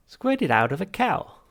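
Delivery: high, loud, slow disbelief; appalled machine. Acted. Machine baffled by milk, appalled. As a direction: recoil at the very idea.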